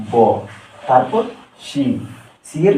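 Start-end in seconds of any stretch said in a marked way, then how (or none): 0.1-0.1 ব said alone as B's sound; letter sound demo. Shown as a demonstration. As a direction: sound out ব as an isolated syllable. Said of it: "বি এর সঠিক উচ্চারণ হলো". (ব আলাদা করে উচ্চারণ)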